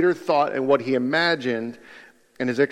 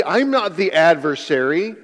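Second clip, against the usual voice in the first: protesting denial; 4 semitones higher than usual. Acted. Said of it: "That would be Peter's".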